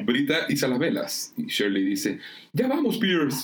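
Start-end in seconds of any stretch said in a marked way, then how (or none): 2.5-3.4 high-pitched reassuring call; acted rescuer's shout. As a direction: call across the water to someone in trouble. Calling to man in water.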